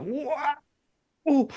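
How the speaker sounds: soft, high drawn-out intake noise; exaggerated inhaling sound effect; imitated long snort. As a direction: mimic sniffing up as much as possible. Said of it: "just does as much as he can".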